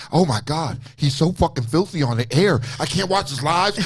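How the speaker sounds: mock-appalled aunts, rising in pitch; scandalized aunts. Aunts complaining about his show, mock scandalized. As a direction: imitate relatives shocked by the show. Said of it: "my aunts and shit".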